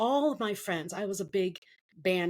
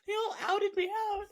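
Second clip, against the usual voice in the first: laughing; 14 semitones higher than usual. Real, not acted. Laughing at friends betraying her.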